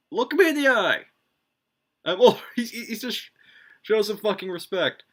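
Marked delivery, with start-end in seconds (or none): 0.1-1.0 higher, louder mock command; commanding god. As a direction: bark it like an offended god demanding respect. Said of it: "He's like".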